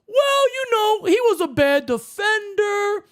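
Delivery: high, dismissive mock voice; lightly voiced know-it-all; mocking a dumb take. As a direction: sneer it like a dumb caller. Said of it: "a dumbass comment saying".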